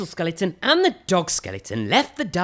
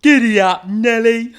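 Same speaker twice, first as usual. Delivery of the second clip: loud rider's shout; giddy-up call; 7 semitones higher, 10 dB louder than usual. Acted. Little skeleton rides the elephant, loud cheerful call. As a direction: urge the elephant on.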